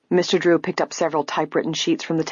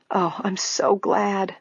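slow, higher, relieved murmur; tender, drawn-out relief; 5 semitones higher, slower than usual. A narrator's reading. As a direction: murmur it with heartfelt gladness. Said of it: "Grace murmured".

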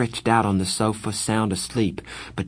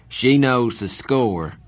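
Dally's voice; 3 semitones higher, 4 dB louder, slower than usual. Acted.

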